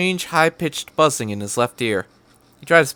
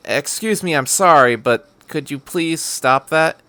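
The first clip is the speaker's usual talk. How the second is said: a more careful, deliberate second try; trying again; 3 semitones higher than usual. Acted. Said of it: "cleared his throat and tried again".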